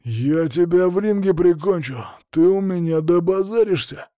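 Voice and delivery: high, wailing threat; ranting lament. A narrator's reading. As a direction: rant helplessly at your opponent. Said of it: "причитал он".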